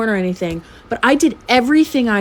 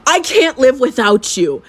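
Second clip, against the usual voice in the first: slow, higher dramatic pleading; mock desperate plea; 4 semitones higher, 4 dB louder, slower than usual. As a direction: imitate a melodramatic ex begging. Acting out ex's desperate plea.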